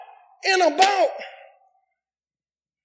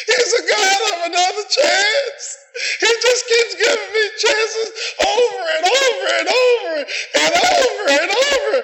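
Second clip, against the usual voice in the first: tearful preaching; 4 semitones higher than usual. Real, not acted. Preacher to congregation, choked-up tearful cry. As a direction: voice breaking high with emotion, near crying. Preacher overcome repeating grace line.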